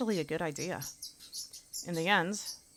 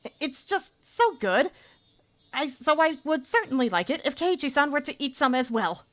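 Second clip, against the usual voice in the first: bright high schoolgirl praising lunch through clenched politeness; girl character voice; 9 semitones higher, 6 dB louder than usual. Acted. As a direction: voice a girl faking enthusiasm. Character offers food.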